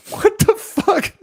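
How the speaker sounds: high, loud laughing outburst; real laughing disbelief. Real, not acted. Streamer cracking up at chat, incredulous. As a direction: squeal it through real laughter.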